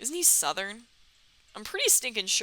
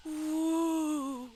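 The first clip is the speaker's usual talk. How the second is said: high drawn-out ooh; 5 semitones higher than usual. Real, not acted. Cooing at the hearts animation.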